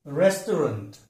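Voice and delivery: रेस्टोरेंट with weak, short middle and last vowels; careful model of रेस्टोरेंट; correct pronunciation. Shown as a demonstration. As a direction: say रेस्टोरेंट as RES-tuh-runt. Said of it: "सही है".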